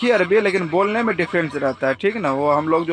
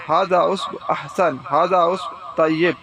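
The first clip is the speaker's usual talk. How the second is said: slow teaching demo; much slower than usual. Shown as a demonstration. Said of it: "آپ بولیں گے".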